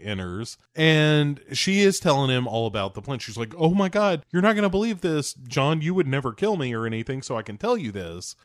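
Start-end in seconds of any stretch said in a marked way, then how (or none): 3.6-8.4 imitating a gushing, excited girl; high-pitched start, rushing to share a secret; mock girlish elation, settling as it goes; elated. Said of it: "she is elated".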